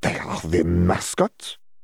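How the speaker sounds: almost a growl, half-growled words. A narrator reads a woman's reply in a conversation: almost growling. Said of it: "almost growling".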